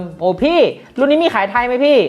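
high, teasing imitation of a viewer; mock commenter. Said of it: "ต้องมีคนมาแซะเหมือนเดิม". (ล้อเลียนเสียงคนดูที่มาแซะ เสียงสูง)

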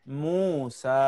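মূসা with long vowels, the final "সা" held; one-alif elongation. Shown as a demonstration. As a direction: stretch out মূসা to its last vowel. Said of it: "এক আলিফ টেনে পড়তে হয়". (মূসা-র "সা" এক আলিফ টেনে পড়া)

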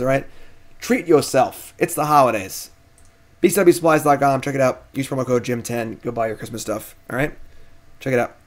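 upbeat sponsor pitch; ad read. Acted. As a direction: sell it like a stream sponsor spot. Reads sponsor plugs.

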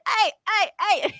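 high-pitched mock yell, not full volume; lightly hollered, high and insistent; retold yell. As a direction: imitate someone calling a fan back. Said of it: "He yelled at me".

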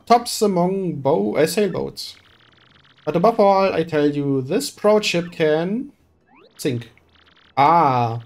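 a showy, theatrical rich merchant; pompous merchant voice. Acted. Boastful merchant recruiting the hero for a voyage, theatrical. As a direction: play it grand and self-important. Flavio explains the navigator problem.

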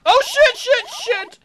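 high loud panicked cursing. Real, not acted. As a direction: blurt it in panic. Nearly caught.

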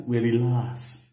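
slow, easy soothing; calm. Retold or imitated. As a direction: drawl "relax" slowly to settle her down. Calming down the excited wife.

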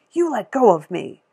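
yelling to be let go; girl yells at the store lady holding her; shouting girl. A narrator's reading.

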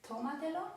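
tómatelo with the stress on TÓ, rising at the end; tómatelo, accented fourth syllable from the end; stress on first syllable. Shown as a demonstration. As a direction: stress tó in tómatelo, ending up as in a list. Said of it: "W sylabie tonicznej nad samogłoską".

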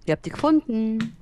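smacking lips while chewing; loud chewing. Real, not acted. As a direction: talk while chewing noisily. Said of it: "Hör auf zu schmatzen da".

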